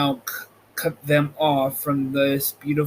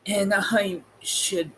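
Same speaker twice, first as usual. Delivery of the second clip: Lion voice; 5 semitones higher, 3 dB quieter than usual. Acted. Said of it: "said the Cowardly Lion".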